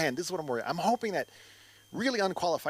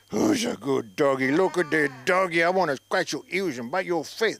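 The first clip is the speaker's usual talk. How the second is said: put-on gushing baby voice for a dog; doggy baby talk; 6 dB louder than usual. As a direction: coo at the dog like it's a baby. Imitating himself petting dogs.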